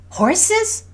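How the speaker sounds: put-on very high, excited child; loud little-girl squeak of a question; hopeful daughter. A narrator's reading. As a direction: pipe up hopefully like a horse-mad kid. Voices hopeful daughter interrupting mother.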